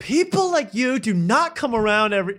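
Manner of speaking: mock-emotional pull-in for a hug; lightly voiced gushing hostess; Drew gushing. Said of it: "You could say".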